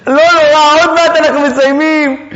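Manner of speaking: mock reassuring husband. Husband to wife screaming in labour, mock reassurance. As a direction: lightly send up a husband cheering her on. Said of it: "ויגיד לאשתו איזה משהו".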